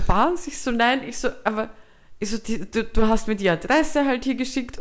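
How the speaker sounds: mock disbelief at the stranger; confused surprise. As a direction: sound thrown off and unsure. Retold confused protest.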